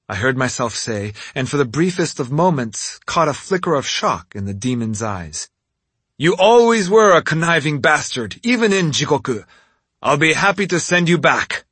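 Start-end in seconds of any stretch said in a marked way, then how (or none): 6.2-11.6 loud savage taunt. Acted. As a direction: sneer it, eager to fight. Tatsumi taunts Oni.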